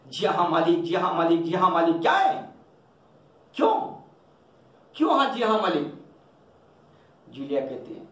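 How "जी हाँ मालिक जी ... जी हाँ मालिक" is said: angry stammer. Acted. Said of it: "गुस्से में तुतलाते हुए कहती".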